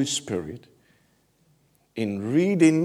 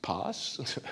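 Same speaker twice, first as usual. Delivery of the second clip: polite British request; 6 dB quieter than usual. Retold or imitated. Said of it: "he was not British".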